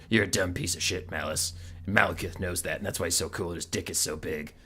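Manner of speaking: lightly voiced smug general; a hint of a swaggering bully taunting; mocking bravado, lightly voiced; mock tough guy. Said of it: "he's like".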